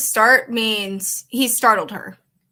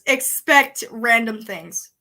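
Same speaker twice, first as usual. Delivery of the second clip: slow dramatic; 4 dB louder, much slower than usual. Acted. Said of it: "I'm a voice impressionist".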